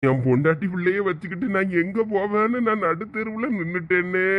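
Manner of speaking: weeping lament rising towards the end; crying. Acted. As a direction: wail it out helplessly, in tears. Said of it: "நீங்க அழுகிறத பார்க்க".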